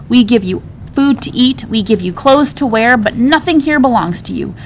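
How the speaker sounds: cruel taunting. Acted. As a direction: jeer at her, rising in spite. John taunting orphan Jane.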